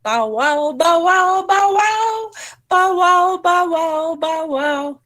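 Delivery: barks climbing high and loud, then easing down; dog barking. A narrator's reading. Storyteller barking as Dog in the story. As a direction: bark like a dog, arching up. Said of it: "And dog went".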